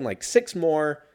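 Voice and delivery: usual speaking voice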